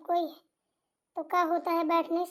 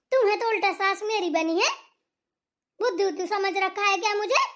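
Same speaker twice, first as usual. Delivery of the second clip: scolding mother-in-law. Acted. Angry mother-in-law scolding bahu.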